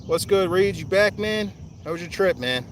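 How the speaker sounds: high, loud friendly shout; calling out. Real, not acted. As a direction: holler a greeting over to a buddy.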